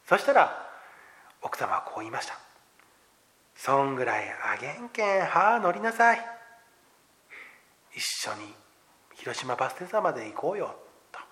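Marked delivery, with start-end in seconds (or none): 3.6-10.7 put-on a lightly done, gentle Hiroshima-dialect older woman; kind Hiroshima dialect. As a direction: coax him kindly onto the bus in Hiroshima dialect. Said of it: "広島弁はちょっと苦手なので、あまりうまく言えてない".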